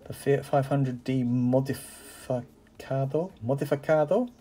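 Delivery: hammed-up Italian accent on the car name; terrible Italian accent. Collector reading the Fiat model name in a mock Italian accent. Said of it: "excuse my absolutely terrible, uh, Italian accent".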